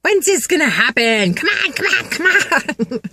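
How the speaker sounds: high, loud, impatient pleading; hammed-up eager nagging at the universe; impatient come on. Impatient followers urging the universe, high and loud. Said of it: "many of you have been like".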